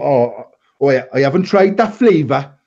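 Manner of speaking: mock Welsh accent, lifting at the end. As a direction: imitate him in a put-on Welsh accent. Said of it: "that was my Welsh accent".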